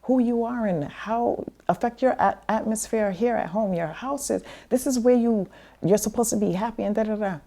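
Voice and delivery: high, fast exasperated lecture; mother scolding her child, high fast exasperated voice; mom lecturing. Retold or imitated. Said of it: "she said".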